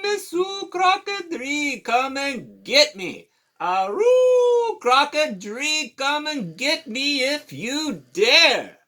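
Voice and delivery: high, loud teasing dog voice; sassy old dog. Acted. Dog daring Alligator to come get him, high loud taunt. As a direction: taunt him, singsong and cocky. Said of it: "said the old dog".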